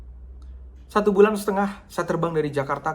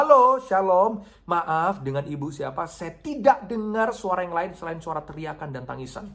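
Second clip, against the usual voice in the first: anxious calling; 3 semitones higher than usual. Retold or imitated. Pastor asking a sobbing stranger on the phone, anxious. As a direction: strain to reach the caller. Asking crying caller who's there.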